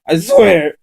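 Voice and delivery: sobbing oath to the gunman; wept out. Acted. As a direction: cry out the oath desperately. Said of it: "and then wept out".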